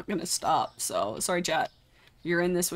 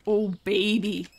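savoring delight; 2 semitones higher, 5 dB louder, slower than usual. Real, not acted.

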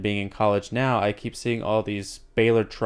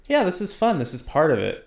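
mock cheerful; 5 semitones higher than usual. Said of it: "you're like".

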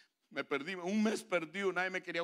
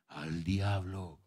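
repeated punchline; 9 semitones lower, much slower than usual. Acted. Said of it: "lo voy a volver a hacer".

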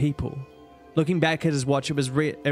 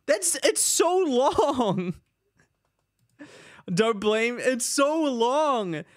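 whiny; 8 semitones higher, much slower than usual. Real, not acted. Whining about the length.

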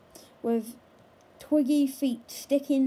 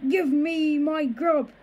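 slow, louder, rough monster voice; growling troll granny; 3 semitones higher, 5 dB louder, slower than usual. Acted. Troll granny demanding her food, slow and growly. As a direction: drag out the demand like a beast.

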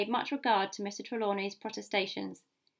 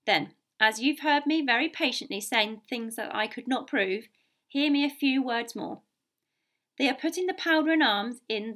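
emphatic captain laying out demands point by point; stern, insistent officer's voice; blunt sea captain; 4 dB louder than usual. Acted. Captain demands changes to stowage and berths, blunt.

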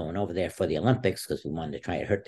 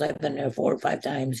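retold yelling; 7 semitones higher than usual. Wrestler retelling his coach's reaction, mild mock yelling. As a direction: imitate an upset coach's protest. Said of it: "he started yelling at me".

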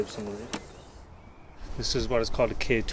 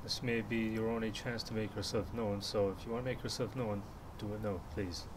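talking to a ghost; 9 dB quieter than usual. Real, not acted. Softly addressing the spirit.

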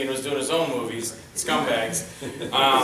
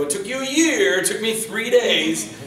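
retold indignant retort; 8 semitones higher, 6 dB louder than usual. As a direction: throw it back loudly, stretching the end. Retold triumphant retort to producer.

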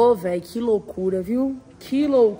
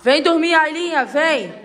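louder coaxing call; calling a pet; 2 semitones higher, 6 dB louder than usual. Real, not acted. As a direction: call the dog in to bed. Calling the dog to bed.

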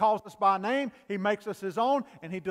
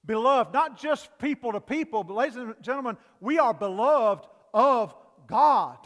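preaching climax; 3 semitones higher, 7 dB louder than usual. Real, not acted.

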